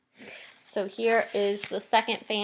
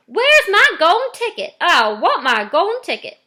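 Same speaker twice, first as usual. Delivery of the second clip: much higher, loud bratty shriek; spoilt child screaming; 8 semitones higher, 9 dB louder than usual. Retold or imitated. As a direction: scream it like a spoilt girl demanding. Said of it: "she would scream at me".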